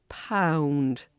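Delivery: "pound" stretched on a round "ow"; elongated pound. Shown as a demonstration. Teacher showing the round vowel, "pound" elongated. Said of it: "we might elongate that pound".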